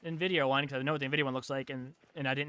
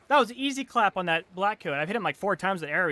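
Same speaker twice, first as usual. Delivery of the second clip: raised, heated complaint; pissed off; 4 semitones higher, 5 dB louder than usual. Real, not acted. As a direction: argue it out loud, really pissed. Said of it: "I'm so pissed".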